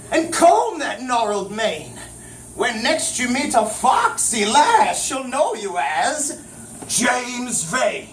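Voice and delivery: slow oracle reciting rhyme; goat man verse. Acted. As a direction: chant the rhyme slowly, grandly. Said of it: "and the goat man said".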